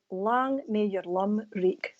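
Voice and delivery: slow Scottish blessing, each word given its Scots sound; a slow, fond Scots "Lang may your lum reek"; Scottish saying. Shown as a demonstration. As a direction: Scots toast said slowly for a foreign viewer. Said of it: "I'm gonna give you a little, from Scotland".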